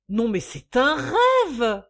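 loud, drawn-out indignant shout; outshouting. A narrator's reading. Mistress shouting over her creditor, outraged. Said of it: "criant plus fort qu'elle".

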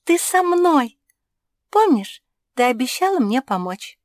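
high, loud squeal of joy; overjoyed. A narrator's reading. Pug overjoyed to see her crow friend, excited high voice. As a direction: burst out very high and delighted. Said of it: "от радости".

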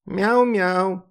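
high, loud mocking meow; squeaky mock meow. A narrator's reading. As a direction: meow to taunt. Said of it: "язвительно пропищала". (язвительное писклявое мяуканье, выше и громче)

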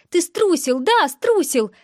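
high, loud accusation; shouting. A narrator's reading. Girl shouting at the boy on the phone, accusing. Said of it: "кричала она".

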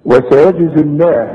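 slow recitation, bounced j in وسيجزي; qalqalah on ج. Shown as a demonstration. Teacher introducing the jim, qalqalah in وسيجزي. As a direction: release the ج of وسيجزي before the z. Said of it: "بقلقلها".

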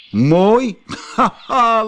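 hoog en luid uitgelachen, vol spot; spottend lachen. Acted. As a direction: lach de slak hoonlachend uit. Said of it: "lachte de merel". (luid spottend gelach)

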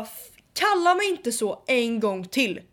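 stern slowed retold threat; angry. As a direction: warn him off, slowly.

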